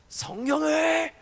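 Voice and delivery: slow, drawn-out shouted cry; half-begun imitation of a shouting preacher, slow and loud; mock preacher's yell. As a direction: start the imitation with a long wailing shout. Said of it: "제가 흉내 내고 싶지 않는데".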